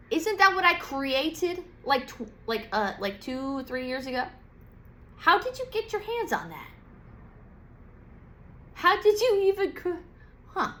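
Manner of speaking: high, accusing questions; high indignant questions. Retold or imitated. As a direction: demand to know who stole the design. Scorpio ranting at the ants.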